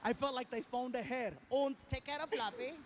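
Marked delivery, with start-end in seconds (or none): 1.5-2.7 lightly put-on German accent; a hint of mock German. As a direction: imitate a German airline worker's accent. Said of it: "It's a German airline".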